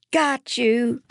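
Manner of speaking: high, pouncing exclamation; spring it on your friend, high and excited; triumphant cry. A narrator's reading. Eva leaps down beside her hiding friend, crying out triumphantly.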